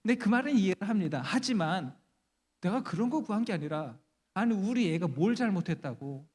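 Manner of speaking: mildly aggrieved mother pleading her case; arguing protest. Acted. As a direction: reason it out, then protest. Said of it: "따져요, 천사한테". (억울한 듯 따지는 말투)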